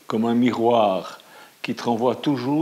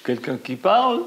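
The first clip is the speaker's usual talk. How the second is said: echo; 8 semitones higher than usual. A narrator's reading. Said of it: "l'écho répond".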